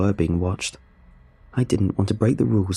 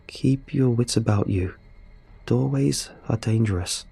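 slow, measured note reading; reading aloud; 3 semitones higher than usual. A narrator's reading. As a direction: read a warning out deliberately. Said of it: "asking me to read mine out loud".

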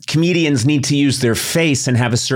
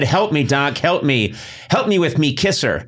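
1930s Brooklyn guy. Pretend. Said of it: "why am I talking like a nineteen thirties guy from Brooklyn?".

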